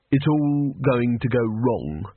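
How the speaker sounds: slow, level gloom; flat. Acted. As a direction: state impending doom slowly and flatly. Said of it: "said Rincewind flatly".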